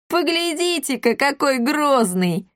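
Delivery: high, mocking village boys; mocking yell. A narrator's reading. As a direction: jeer at the little boxer. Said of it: "завопили они". (высоким насмешливым голосом, дразня)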